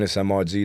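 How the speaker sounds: "M R G" as the letters M, R, G, not "Mister G"; spelled letters. Shown as a demonstration. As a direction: say "M R G" as three separate letters. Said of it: "not Mister G".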